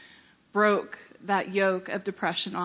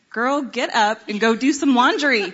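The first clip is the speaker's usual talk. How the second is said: self pep talk; 8 dB louder than usual. Retold or imitated.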